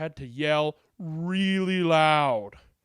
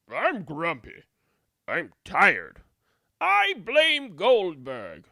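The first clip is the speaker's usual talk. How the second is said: grumpy villagers; 4 dB louder, slower than usual. Acted.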